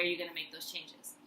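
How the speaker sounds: softly whispered ending. Real, not acted. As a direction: drop to a hushed whisper. Sentence trails into whisper.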